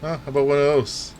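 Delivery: put-on a light, half-hearted Italian New York accent, needling. Streamer mock-confronting a pizza offender in an Italian New York accent. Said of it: "That's my best Italian, uh, New York accent".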